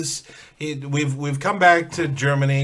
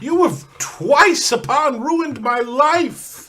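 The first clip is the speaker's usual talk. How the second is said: accusing; 7 semitones higher, 5 dB louder, slower than usual. Acted. Accusing the fiend in character.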